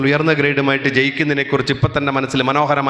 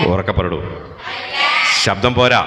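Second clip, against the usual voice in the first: louder demand; 7 semitones lower, slower than usual. Real, not acted.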